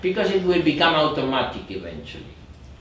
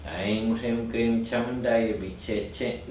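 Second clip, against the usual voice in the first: measured chant on a steady note; even, unhurried recitation; slow mantra; 3 semitones lower, 4 dB quieter than usual. Shown as a demonstration. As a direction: recite the syllables without hurry. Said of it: "I do it again slowly".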